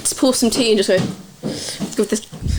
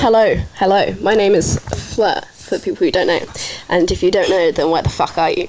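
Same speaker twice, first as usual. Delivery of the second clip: lower, deadpan host intro; mock host voice; 4 semitones lower than usual. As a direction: play the show host with a smirk.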